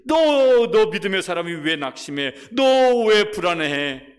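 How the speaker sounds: loud, high-pitched scolding of oneself; acted rousing reproach, pitched high; self-rebuke. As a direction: shake yourself out of despair, loudly. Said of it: "자기가 자기한테 뭐라고 말하냐면요".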